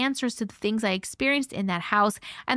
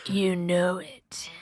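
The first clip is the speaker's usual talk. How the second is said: slow whispered imitation of a sick voice; husky whisper; 5 semitones lower, much slower than usual. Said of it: "He's like".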